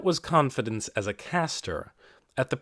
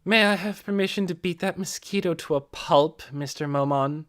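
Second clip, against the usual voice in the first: derisive; 5 semitones higher than usual. Acted. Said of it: "Narborough laughed derisively".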